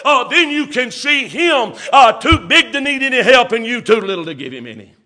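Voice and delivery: preacher crying out to the church, shouting; preaching shout. Acted. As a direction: lift the line up like a revival call. Climax of sermon.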